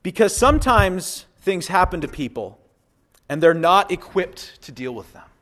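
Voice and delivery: a highlighted quote, read aloud; quoted reading. Shown as a demonstration. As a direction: read the line with weight. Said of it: "It said this".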